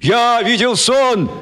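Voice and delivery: slow, high chant back; crowd answering. Acted. Crowd chanting the slogan back. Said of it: "отвечала ему толпа".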